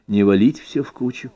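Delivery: plain reading voice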